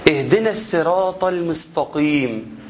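اهدنا الصراط المستقيم with the س made heavy like ص; wrong heavy sad. Shown as a demonstration. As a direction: mispronounce المستقيم with a thick emphatic s. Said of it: "ودني مش قبلاها".

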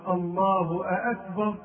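slow, with a doubled hamza before "أكبر"; questioning hamza. Shown as a demonstration. Teacher shows how it becomes a question, extra hamza on "أكبر". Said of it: "كأنه يقول".

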